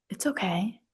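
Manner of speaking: whispered comfort; soft whisper. Acted. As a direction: whisper it gently. Comforting about the young quarterback.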